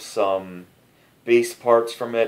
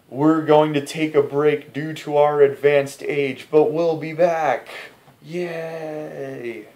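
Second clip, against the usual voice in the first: quoted stage banter; 7 semitones higher than usual. Retold or imitated. Quoting the singer's joke on stage.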